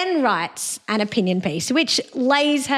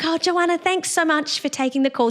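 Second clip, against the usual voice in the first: high, lilting, mock-sweet voice; sing-song voice; 7 semitones higher than usual. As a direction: imitate her sugary high sing-song. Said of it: "one of those people with a sing-song voice".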